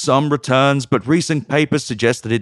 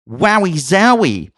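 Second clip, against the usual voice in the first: slow, higher-pitched fake wow; sarcastic mock amazement; 6 semitones higher, slower than usual. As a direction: draw it out in mock wonder. Sarcastic reaction to faint praise.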